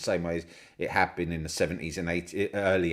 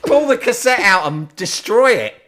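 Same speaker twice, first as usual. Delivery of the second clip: much higher, louder mock command; mock brother's order; 12 semitones higher, 12 dB louder than usual. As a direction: bark the order like the outraged brother. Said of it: "He's like".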